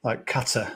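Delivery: Qatar with stress on the first syllable, KAT-uh. Shown as a demonstration. Podcast host answers how he says Qatar, KAT-uh. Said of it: "pronunciations of that place".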